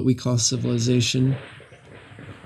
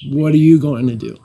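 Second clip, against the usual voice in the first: laughing; 3 semitones higher, 6 dB louder, faster than usual. Shown as a demonstration. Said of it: "Which I translate as".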